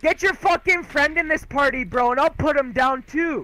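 yelling. Real, not acted. Daring him to bring his friend into the party, angrily. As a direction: throw down a heated threat. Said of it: "why are you yelling at me".

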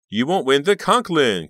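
very high, loud hysterical threat; vehement promise. A narrator's reading. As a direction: cry the vow at a rival. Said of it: "Karina promised her".

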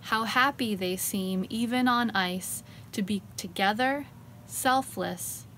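measured, unhurried poetry reading with pauses between phrases; poem reading. Acted. Reader sharing a favourite Mark Doty poem with listeners, measured poetry reading. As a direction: savour each image as you read it aloud.

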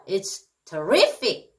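terrific stretched slowly, stressed on RIF; stress on second syllable. Shown as a demonstration. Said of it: "강세가 뒤에 있어요".

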